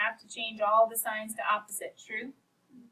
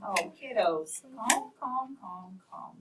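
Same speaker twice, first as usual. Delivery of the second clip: soothing calm; much slower than usual. Real, not acted. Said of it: "calming the class".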